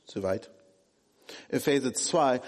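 ordinary delivery

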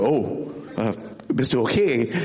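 low, gentle concern; caring question. Retold or imitated. Father to hurt child, low and gentle. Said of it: "Das ist ganz anders".

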